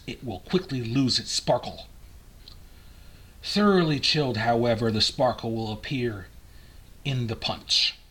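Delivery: put-on measured, old-fashioned recipe reading; formal reading aloud. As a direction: read it out like printed household advice. Reads old recipe book aloud.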